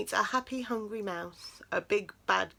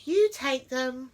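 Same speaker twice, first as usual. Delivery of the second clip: sighing mouse; 5 semitones higher, 7 dB louder, slower than usual. A narrator's reading. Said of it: "Mouse sighed".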